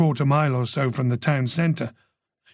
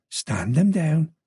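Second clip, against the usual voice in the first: slow Irish purr. Acted. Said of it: "the voice purred".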